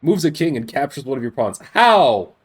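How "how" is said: surprised. Real, not acted. Chess move makes no sense.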